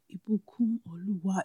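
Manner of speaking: "Ibukun Oluwa" softly tuned, Nigerian vowels; name with melody. Shown as a demonstration. Host showing that Nigerian names are melodies, "Ibukun Oluwa" said tunefully. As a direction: let "Ibukun Oluwa" flow like a song. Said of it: "when I put the tune in my name".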